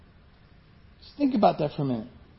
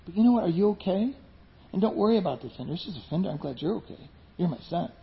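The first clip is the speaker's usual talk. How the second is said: calm caring dad; 3 semitones lower, 7 dB quieter, faster than usual. Retold or imitated. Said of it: "a healthy dad would say".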